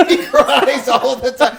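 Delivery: high, drawn-out mock wail; mock crying professor. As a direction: stretch it out as a pretend cry. Crying imitation of Peterson amid laughter.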